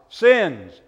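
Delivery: loud, emphatic "Sins"; demonstrated shout. Shown as a demonstration. Pastor showing a child he can shout it, light shout. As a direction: call out "Sins" good and loud. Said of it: "You can actually shout it".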